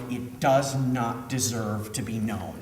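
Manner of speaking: low, soft, slow and sincere; earnest conviction. Real, not acted. Director closing the story of a failed show, low earnest conviction. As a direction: weigh each word quietly.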